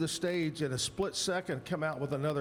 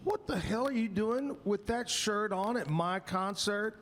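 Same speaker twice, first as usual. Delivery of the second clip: mock-serious indignation, pitched up; imitated outrage, higher voice; impression of a singer; 5 semitones higher than usual. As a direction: retell an affronted singer's challenge to a fan. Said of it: "he's being real serious".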